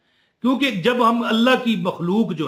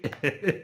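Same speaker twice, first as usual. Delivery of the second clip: brief quiet laugh; small chuckle after a joking aside; real, softly voiced laugh; 3 semitones lower, 9 dB quieter than usual. Real, not acted. Laughs at his Punjabi aside.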